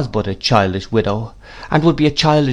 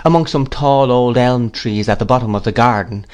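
ordinary delivery, nothing marked

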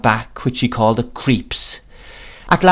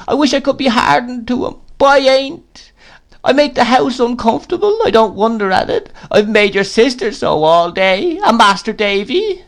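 self-pitying widow crying out; 11 semitones higher than usual. A narrator's reading. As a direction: wail out her lone, lorn misery. Plays Mrs Gummidge.

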